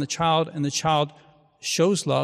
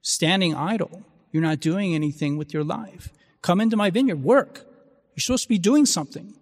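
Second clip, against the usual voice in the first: a retold vineyard owner's lightly acted annoyance; upset owner; 2 semitones higher than usual. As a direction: scold the idle laborers, building up. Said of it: "he's upset".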